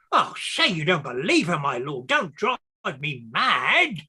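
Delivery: swooping, melodramatic begging; frantic pleading. Acted. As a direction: plead as if driven to despair. Accused clerk begs his lord.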